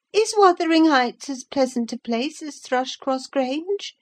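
put-on high childish voice, enquiring; a boy asking about his new home; curious child. A narrator's reading. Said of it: "he inquired".

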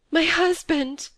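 high, slow, drawn-out cry of grief; a widow's slow, high wail of loss; anguished wail. A narrator's reading. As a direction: let the grief break through the name. Widow learns husband is dead.

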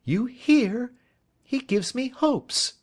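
high, loud, slow defiant gloat; young woman taunting the inspector, high and defiant; defiant triumph. A narrator's reading. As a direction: throw it back at him in triumph. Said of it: "looking defiantly at Lestrade".

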